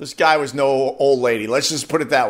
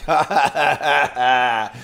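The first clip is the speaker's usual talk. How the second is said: mock laugh; slower than usual. Mocking the beeping driver.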